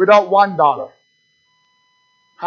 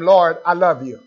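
sincere prayer; 2 semitones lower than usual. Shown as a demonstration. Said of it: "You try to tell him".

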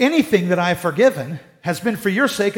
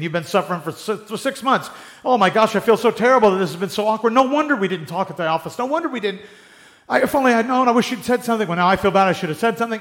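flustered apology; 4 semitones higher than usual. Acted. Acted flustered remorseful colleague.

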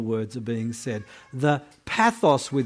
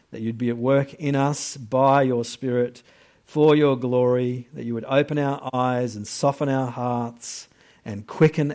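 prayer; 3 semitones lower than usual. Acted. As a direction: pray humbly before the sermon.

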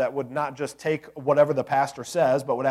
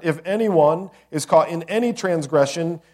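any hit louder from the pulpit, louder than the first reading; stress on any; 3 semitones higher, 6 dB louder than usual. Shown as a demonstration. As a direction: lean hard on any in transgression.

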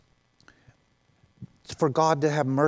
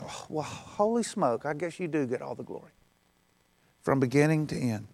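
sheepish admission; 6 dB quieter than usual. Retold or imitated. Sheepish concession to God.

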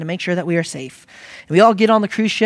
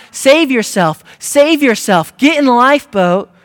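loud, high captain's shout; urgent yell, pitched up; crying out; 7 semitones higher, 7 dB louder than usual. Acted. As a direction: cry out a desperate warning to passengers. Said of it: "the captain is crying out".

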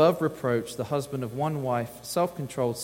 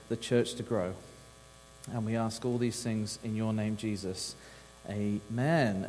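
prayer; 2 semitones lower, 3 dB quieter than usual. Acted. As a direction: pray over the room, gently and earnestly. Leads the congregation in prayer.

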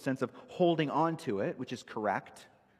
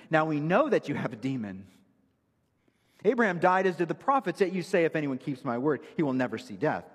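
indignant challenge; 3 semitones higher, 4 dB louder than usual. Retold or imitated. Reading the Jews' angry challenge.

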